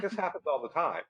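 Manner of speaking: imitating a family shrugging it off; offhand, with a laugh underneath; unbothered. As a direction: say it as everyday news, amused. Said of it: "the family's just ignoring it".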